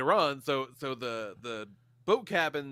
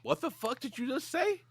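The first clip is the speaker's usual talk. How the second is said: shocked disbelief. Retold or imitated. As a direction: pitch jumps way up in retold disbelief. Stunned reply to sleepy wife.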